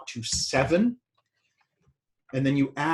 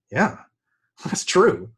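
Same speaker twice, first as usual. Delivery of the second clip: laughing agreement; 5 semitones higher, 5 dB louder, much slower than usual. Retold or imitated. Voicing everyone agreeing, laughing.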